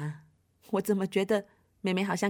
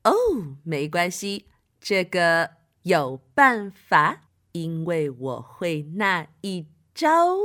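calm reassurance; 4 semitones lower, slower than usual. Acted. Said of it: "巫婆妈妈马上就说".

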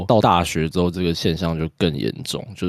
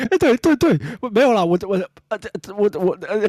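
flustered laugh; 14 semitones higher, faster than usual. Real, not acted. Flustered, caught out.

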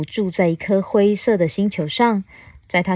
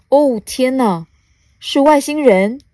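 higher, louder storybook astonishment; amazed little bug; 6 semitones higher, 5 dB louder than usual. Acted. Small bug spots an alien, amazed.

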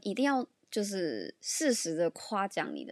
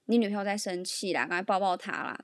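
slightly louder mock call across the room; retold loud call; 3 dB louder than usual. Best friend calling to the boyfriend, mildly louder mock call. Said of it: "就讲很大声说".

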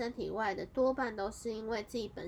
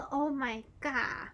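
stunned; 5 semitones higher, 5 dB louder, much slower than usual. Retold or imitated. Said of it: "直接傻眼".

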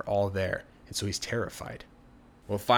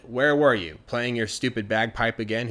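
irritated mom; 3 dB louder than usual. Acted. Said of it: "she was really irritated".

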